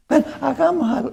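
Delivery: soft, breathy whisper, barely voiced; mock private whisper, not the real delivery; whispered wrong take. Shown as a demonstration. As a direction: hush it like someone talking to himself. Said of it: "No, así no fue".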